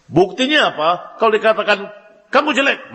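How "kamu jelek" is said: higher-pitched mocking jab; tossing a light insult; a hint of a taunting bystander. Voices someone's insult.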